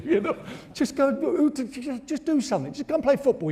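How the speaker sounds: laughing. Retold or imitated. Mocking dad, laughing.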